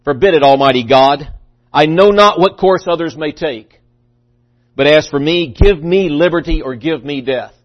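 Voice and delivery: declaimed, measured patriotic speech; mildly stirring rally cry, phrase by phrase; rousing oratory. Acted. Patrick Henry urging the people to declare independence, rousing oratory. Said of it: "trying to fire the people up".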